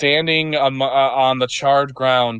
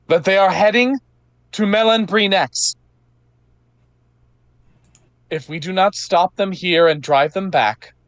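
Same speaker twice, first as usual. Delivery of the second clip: rousing knight's speech; 4 semitones higher than usual. Acted. Johanna continues her rallying speech.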